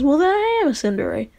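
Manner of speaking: flustered tsundere retort; indignant admission. Retold or imitated. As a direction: admit it in mock indignation. Acted tsundere quarrel.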